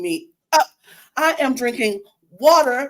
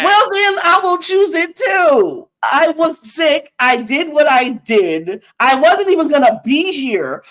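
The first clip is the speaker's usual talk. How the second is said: mock angry; 5 semitones higher, 4 dB louder, slower than usual. Mock fight over sick podcast host.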